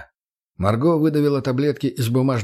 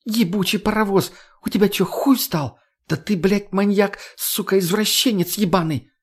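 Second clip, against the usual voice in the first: high, furious shriek of outrage; indignant shrieking; 9 semitones higher than usual. A narrator's reading. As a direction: scream the abuse in outrage. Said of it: "возмущённый крик Марго". (возмущённый крик)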